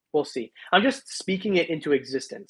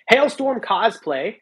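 slow, stretched and louder, every syllable dragged out; odd drawn-out reading; 6 semitones higher, 6 dB louder, much slower than usual. Real, not acted. Streamer reading a donor's name aloud, oddly slow and drawn out. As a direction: read the donor's name like a weird slow announcement. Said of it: "why did I say it like that?".

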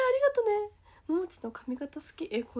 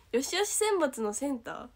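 ordinary delivery

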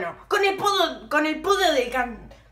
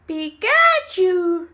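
louder, stretched crying call; slow wailing call; 3 semitones higher, 5 dB louder, much slower than usual. Pretend. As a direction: wail the name out. Calling out in panic. (grito lloroso alargado)

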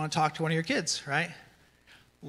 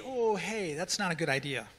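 playful correction; 4 dB quieter than usual. Acted. Dad correcting his younger kids, playful and gentle. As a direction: ease them off it playfully. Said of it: "much more playfulness".

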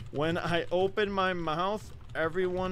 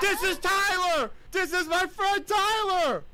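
higher and louder, laughing recognition; excited exclaim; 4 dB louder than usual. Real, not acted. A woman recognizes her friend on the dating app and shouts with glee. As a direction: shout it out, delighted.

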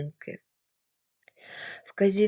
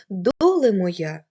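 "доле моя" repeated slowly and louder, lingering on "доле"; slow, drawn-out recitation; 5 dB louder, slower than usual. Shown as a demonstration. Teacher repeating the folk line for her students, slow and louder. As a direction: stretch the repeated "доле моя" like a sung lament. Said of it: "Наприклад".

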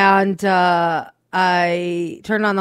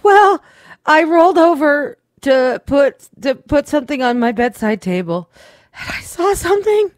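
hushed, spooked retelling of her find; imitating scared wife; 8 semitones higher, 4 dB louder than usual. Wife telling husband what she saw, timid high voice.

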